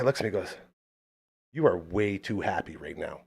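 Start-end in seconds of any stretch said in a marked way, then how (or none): 1.5-3.2 low, softer grumpy put-down; imitated scowling grump. Grumpy stranger to the host, low scowling remark. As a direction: grumble it with a scowl in the voice. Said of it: "like, with a scowl".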